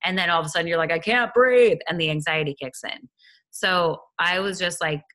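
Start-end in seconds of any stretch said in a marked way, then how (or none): 0.9-1.8 panicked gasp. Retold or imitated. Panicked inner voice during asthma.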